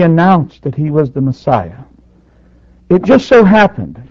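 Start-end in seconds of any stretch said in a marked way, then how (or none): 2.9-4.0 sarcastic. Real, not acted. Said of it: "now I'm just saying that sarcastically".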